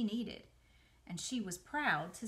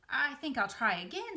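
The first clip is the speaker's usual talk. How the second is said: cheerfully; 5 semitones higher, 5 dB louder than usual. Acted. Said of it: "said Wilbur cheerfully".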